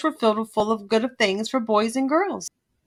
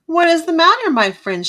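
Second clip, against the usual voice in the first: asking kindly; 6 semitones higher, 6 dB louder than usual. A narrator's reading. Little blue engine asks the stranded toys kindly. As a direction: ask with friendly concern, starting up high. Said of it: "she asked kindly".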